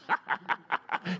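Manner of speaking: short staccato high laugh; punchy, deliberate ha-ha-ha; demonstrated laugh. Shown as a demonstration. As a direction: laugh in bursts at the impossible.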